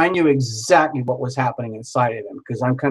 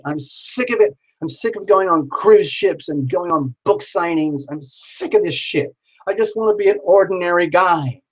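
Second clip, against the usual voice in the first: imagined inner weeping. Retold or imitated. Famous psychic's imagined inner lament, mock whining. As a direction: let the famous psychic's fed-up moan climb and crack. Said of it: "inside he was weeping".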